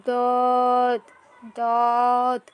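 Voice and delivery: দদ said with the tongue edge pressed on the upper molars; slow, deliberate দদ from the tongue's side; Arabic letter demo. Shown as a demonstration. Teacher showing students how to say দদ. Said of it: "জিহ্বার কিনারা উপরের মাড়ির দাঁতের সাথে লাগিয়ে এটা পড়তে হবে".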